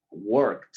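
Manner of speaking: worked with a clipped t at the end. Shown as a demonstration. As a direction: end worked on a crisp t, no vowel. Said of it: "al final suena como una T".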